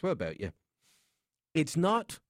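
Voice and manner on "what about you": put-on lower-pitched Belfast accent. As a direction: say it as around Belfast, Irish-style. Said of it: "Up around Belfast".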